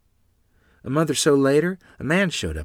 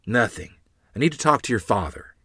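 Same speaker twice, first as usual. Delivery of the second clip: grouchy; 4 semitones higher, 5 dB louder than usual. A narrator's reading. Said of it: "came her grouchy reply".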